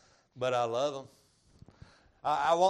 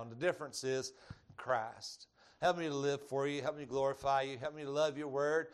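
prayer. Acted. Closing prayer.

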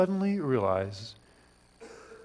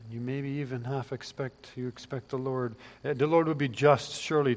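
ordinary talk

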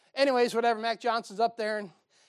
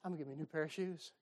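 excited preacher; 3 semitones lower, 12 dB quieter, much faster than usual. Retold or imitated. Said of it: "Boy, was he excited".

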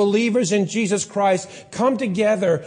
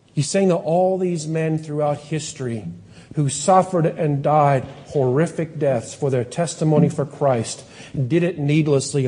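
ordinary talk, nothing marked

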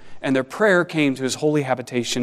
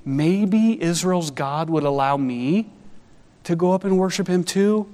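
timid sojourner; 3 semitones higher than usual. Retold or imitated. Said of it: "who wondered".

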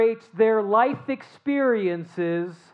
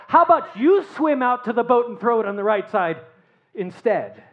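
mock incredulous retort. Preacher imagining his own reply to Jesus, hammed-up sarcasm. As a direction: scoff at the stranger on shore, building to indignant. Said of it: "I can hear myself responding".

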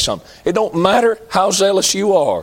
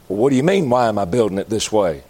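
prophet of Baal; 9 semitones lower than usual. Pretend. Baal prophet answers, lower.

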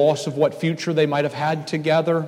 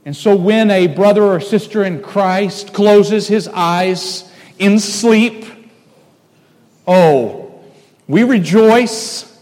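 louder, higher, building to rejoice; rising preaching; 5 semitones higher, 5 dB louder, slower than usual. Acted. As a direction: swell up into a joyful proclamation. Preaching joy at believer's death.

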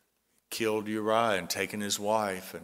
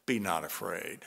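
reassuring; 4 semitones lower than usual. Retold or imitated. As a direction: settle their fear gently. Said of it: "the Lord would appear to them and say".

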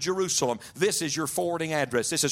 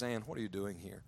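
much softer, lower, spent voice; weak prisoner; 7 semitones lower, 12 dB quieter than usual. Retold or imitated. Tortured husband greeting his wife, faint and spent. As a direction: speak like a man hanging by his thumbs.

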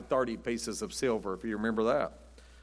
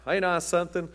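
mock show-off; 4 semitones higher than usual. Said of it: "putting on a show and saying".

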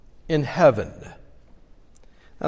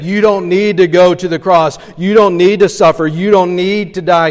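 lightly voiced coaxing tempter, a bit louder; tempting dragon voice; 3 semitones higher, 6 dB louder than usual. The dragon speaking through Peter to Jesus, mild coaxing. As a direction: coax him gently away from the cross. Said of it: "Jesus heard the voice of that dragon saying".

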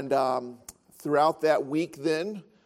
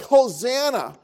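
proclaiming crowd; 6 semitones higher, 5 dB louder, slower than usual. Retold or imitated. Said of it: "They cry out things like".

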